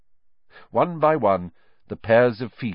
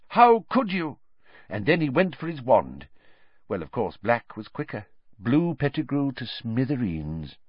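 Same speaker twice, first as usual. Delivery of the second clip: higher official's voice telling a grim tale; pompous minister, grave; 7 semitones higher than usual. Acted. Minister tells the landlady how Pettigrew died, grave official voice. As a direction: play the fussy minister recounting the death. Fudge character voice, retelling.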